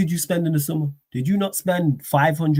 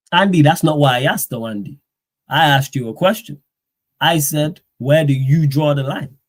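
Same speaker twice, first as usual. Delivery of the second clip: exasperated; 5 dB louder than usual. Real, not acted. Pressing a chat viewer for answer.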